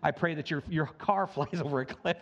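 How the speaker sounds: a hint of sarcastic sweetness in a mock prayer; mock pious curse. Preacher mocks a spiteful prayer from a country song, sarcastic. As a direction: feign kindness while wishing harm, low-key. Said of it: "It's this country song".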